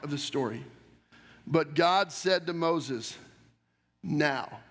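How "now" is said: solemn God. Acted. God speaks to Moses.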